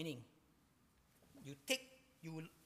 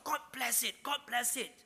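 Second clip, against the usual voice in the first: raised, higher-pitched acclaiming cries; acted celebratory shouts; 6 semitones higher, 3 dB louder than usual. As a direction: call it out like a cheering crowd. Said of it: "to shouts of".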